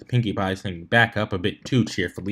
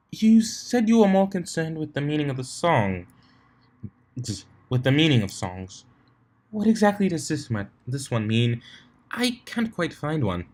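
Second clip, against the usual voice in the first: lightly voiced refined lady, higher; a hint of a prim unicorn, pitched up; Rarity's voice; 5 semitones higher than usual.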